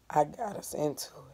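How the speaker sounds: soft, drained and flat; a boy defeated and listless. Shown as a demonstration. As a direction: say it with no life left.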